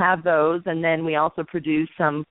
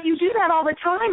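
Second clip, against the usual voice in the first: teasing; 11 semitones higher than usual. Retold or imitated. Colleagues teasing her.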